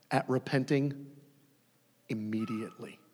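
whispered, breathy emphasis on immediately. Shown as a demonstration. Preacher urging quick repentance, whispered. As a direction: drop to a whisper to drive it home. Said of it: "whispered emphasis".

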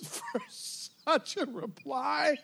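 high, slow, hushed marveling; astonished. Retold or imitated. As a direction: stretch it out in acted amazement. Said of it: "see him astonished again".

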